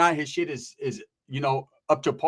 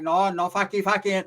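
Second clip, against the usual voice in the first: mock Asian accent. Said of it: "The Asian dude's like".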